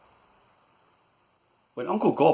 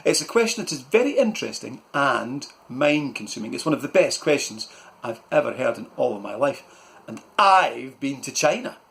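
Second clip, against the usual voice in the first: a bit louder pompous uncle; uncle's voice; 2 semitones higher, 3 dB louder than usual. Acted. Uncle flattering Malcolm's question, a touch louder. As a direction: puff up with praise. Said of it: "Uncle Gob said".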